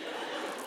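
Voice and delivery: mock awed gasp; starstruck gasp. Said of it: "I'm like this".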